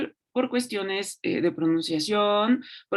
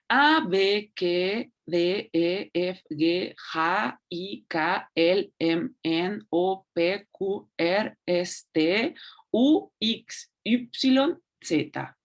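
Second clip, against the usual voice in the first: reading out the alphabet; much slower than usual. Shown as a demonstration. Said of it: "Voy a leer las letras acá arriba".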